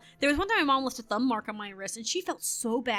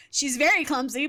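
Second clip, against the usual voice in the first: louder, blunt emphasis on "very"; pointed subtext; 5 dB louder than usual. Retold or imitated. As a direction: spell out what the polite teacher really meant. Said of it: "the look my teacher gave".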